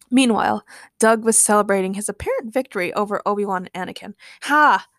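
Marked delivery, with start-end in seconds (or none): 4.4-4.9 single mock laugh; short, acted gloating laugh. A narrator's reading. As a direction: crow one triumphant ha. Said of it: "laughed Doug".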